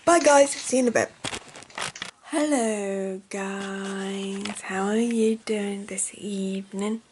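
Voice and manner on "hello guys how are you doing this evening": hushed greeting. Real, not acted. Greeting viewers late in the evening, hushed and slow.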